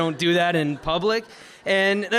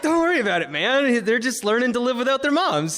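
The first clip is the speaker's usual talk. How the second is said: upbeat reassurance; 6 semitones higher, 4 dB louder than usual. Retold or imitated. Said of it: "He was a positive person".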